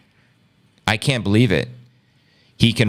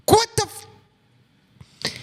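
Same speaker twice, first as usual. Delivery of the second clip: what the, jumps way up in shock; stunned outburst; faster than usual. Real, not acted. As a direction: gasp it out, pitch leaping high. Shocked at guilty verdict.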